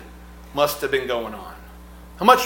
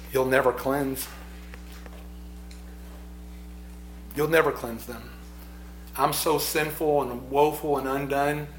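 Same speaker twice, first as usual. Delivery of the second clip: humble sorrow; 5 dB quieter than usual. Retold or imitated. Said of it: "That choked up feeling, that heaviness".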